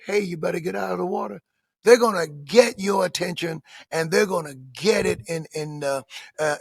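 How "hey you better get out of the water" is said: soft, quick, offhand warning; too-casual warning. Acted. People on shore warning a boater, far too casually. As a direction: warn them as if nothing's urgent. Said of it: "aren't gonna say".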